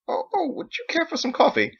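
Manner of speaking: high, fussy offer of coffee; eager father. Acted. Father eagerly offering his son coffee, high and fussy. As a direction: flutter over him like a nervous host.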